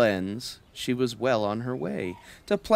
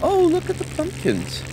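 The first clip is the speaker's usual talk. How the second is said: high, loud and thrilled; excited takeoff; 13 semitones higher, 4 dB louder than usual. A narrator's reading. Reading the plane roaring off over the garden, thrilled and loud. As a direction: ride the rush of takeoff.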